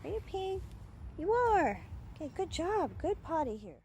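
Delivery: high, bright praise for a puppy; high-pitched pet talk. Real, not acted.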